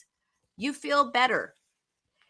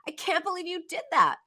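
higher, mock-harsh self-scolding; Ellen's harsh self-talk; 6 semitones higher than usual. Ellen berating herself after the party, higher and harsh. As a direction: scold yourself like a fed-up critic. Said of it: "this is Ellen talking".

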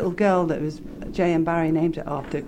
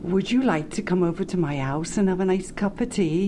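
Welsh accent. Shown as a demonstration. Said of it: "Let's hear it".

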